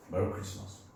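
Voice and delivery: 메리 크리스마스 with English vowels; English accent. Shown as a demonstration. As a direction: say 메리 크리스마스 like a native speaker. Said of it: "이런 식으로 발음 안 되지".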